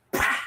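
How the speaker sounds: spoken smack noise; imitated slap. Telling how auntie slapped his face, imitated smack. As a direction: mimic a slap with the mouth. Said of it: "I get a slap in my face".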